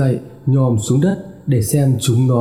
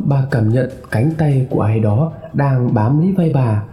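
ordinary delivery

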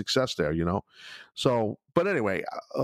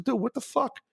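retold confrontation; 13 semitones higher than usual. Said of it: "I said".

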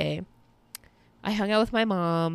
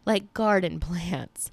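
laughing whisper; much slower than usual. Real, not acted. Laughing whisper about plants.

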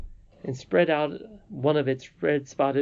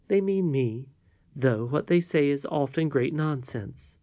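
lightly voiced old lady, higher pitched; earnest old lady; 5 semitones higher than usual. Old lady asks Curdie not to join the mockers, earnest and measured. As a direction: explain the request earnestly in a raised voice.

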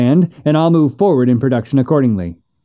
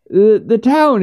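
slow, halting stammer on the repeated word; 8 semitones higher, slower than usual. Acted. Hank stammers bad news to Missus Finch, slowly. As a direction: trip over the start, then push on slowly. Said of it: "he stammered".

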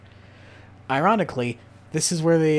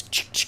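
shotgun pump noise. Retold or imitated. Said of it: "All I got is shotgun gun noise".

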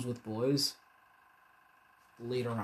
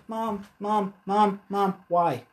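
put-on whiny little girl; 7 semitones higher, much slower than usual. Little girl pestering mother.

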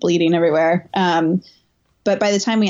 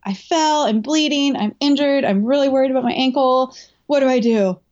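retold distress; 6 semitones higher than usual. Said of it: "like, crying".

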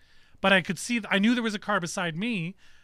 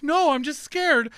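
put-on higher, louder and slow, like a frightened eight-year-old; scared little girl; 8 semitones higher, 5 dB louder, slower than usual. Father voicing his shaken daughter after the crash, high and slow. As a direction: let it quaver up high like a scared kid. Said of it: "She's like".

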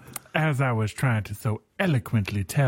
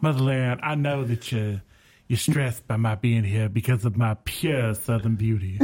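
Southern belle. Acted. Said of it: "talk like a Southern belle".

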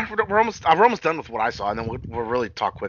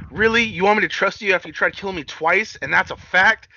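imitated incredulity; 5 semitones higher than usual. Acting wrestler's incredulous reply.

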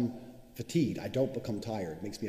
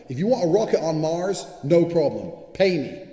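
much higher, louder offer; loud boast; 5 semitones higher, 9 dB louder than usual. Real, not acted. Offering a Mars rocket to buyers, loud boast. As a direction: sell it with a shout. Ranting about getting paid.

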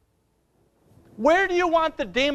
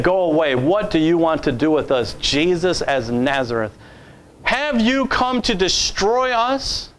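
lower, loud demon snarl; 6 semitones lower, 5 dB louder than usual. Acted. Preacher voicing the demon before Jesus, low and loud. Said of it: "This is the devil speaking".

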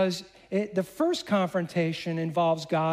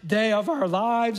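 mock panic, pitched a little up; lightly acted dismay; freaking out; 3 semitones higher than usual. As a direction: retell it as astrologers in a mild flap. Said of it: "they're freaking out".

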